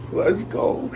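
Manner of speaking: cheering himself on, high and loud; high, shouted hype. Real, not acted. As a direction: pitch jumps up, yelling. Shouting in icy water.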